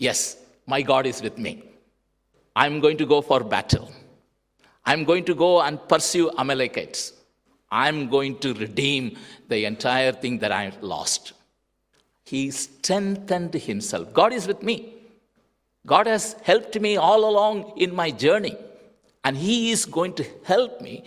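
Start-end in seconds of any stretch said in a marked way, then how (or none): 0.1-11.3 determined declaration. Acted. David voiced, declaring his resolve. 14.2-21.0 higher and louder, faster, full of faith; fervent proclamation. Acted. David voiced, declaring God's help.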